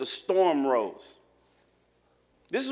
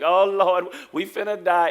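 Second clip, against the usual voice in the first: mock panic; 6 dB louder than usual. Mocking panic over a drizzle.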